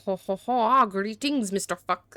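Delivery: tentative hammed-up French greeting; attempted French accent. Shown as a demonstration. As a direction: try out a French accent, badly faked. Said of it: "I'm gonna try the French".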